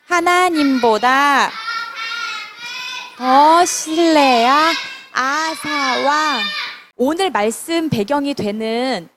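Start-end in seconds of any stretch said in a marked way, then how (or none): 0.1-6.4 slow, drawn-out title reading; slow group reading. Shown as a demonstration. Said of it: "제목을 큰 소리로 다시 한번 읽고". (또박또박 천천히 읽기)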